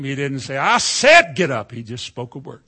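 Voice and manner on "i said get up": mock shout. Shown as a demonstration. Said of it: "He didn't yell at him".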